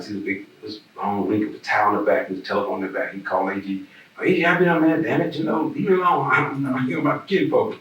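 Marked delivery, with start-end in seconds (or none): 4.2-7.8 playfully voiced Walt, high and dismissive; Walt brushing off a caller. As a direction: imitate Walt telling the caller to leave him alone. Walt voiced in retold scene.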